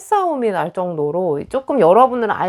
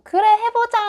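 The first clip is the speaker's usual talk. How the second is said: mock eager cheer. Reader imitating the upbeat side of viewers, childlike eager cheer. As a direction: pitch jumps way up, bright and eager. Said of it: "애기같이 순수할 때도".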